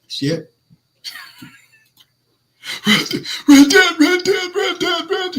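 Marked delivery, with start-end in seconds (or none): 2.9-5.4 high raspy coach impression; Rizzy voice impression. Host imitating the head coach at a press conference, high and raspy. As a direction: play the coach at the podium, raspy. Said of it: "your raspy ass, Rizzy voice".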